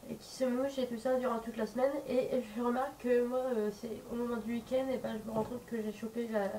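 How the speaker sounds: blocked nose from a cold; stuffy nose. Real, not acted. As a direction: talk through a heavy head cold. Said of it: "là j'ai un gros rhume". (nez bouché, voix enrhumée)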